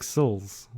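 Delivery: "Sills" as seals and cells said alike; merged-vowel pronunciation. Retold or imitated. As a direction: say "Sills" with one short i for both seals and cells. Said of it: "you're gonna be like".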